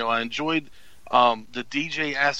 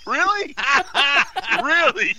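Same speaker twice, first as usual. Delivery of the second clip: real laughing surprise; 11 semitones higher, 5 dB louder than usual. Real, not acted. Reacts to being put on spot.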